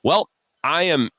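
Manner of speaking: imitating the woman. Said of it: "And she goes".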